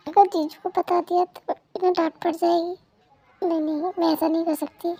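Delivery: soft, private aside; hushed inner thought. Acted. Wife privately decides not to tell brother-in-law, hushed inner thought. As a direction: think aloud under your breath. Secret thought before answering.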